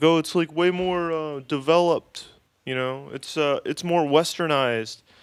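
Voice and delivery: dumb, dopey put-on voice, pitched high. Retelling what everybody said before you got here, in a stupid voice. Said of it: "I gave that person a stupid voice".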